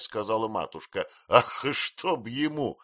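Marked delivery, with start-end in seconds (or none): 1.3-2.8 slow, loud mock outburst; a drawn-out cry of exasperation; Peggotty blurts it out; exclaiming. A narrator's reading. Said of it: "воскликнула Пиготи".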